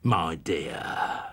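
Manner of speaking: slow, wheedling Cockney lisp; slow, insinuating old-man lisp; Fagin's Cockney lisp. Acted. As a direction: coax it out like a sly old fence. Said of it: "The Cockney Jewish lisp of Fagin".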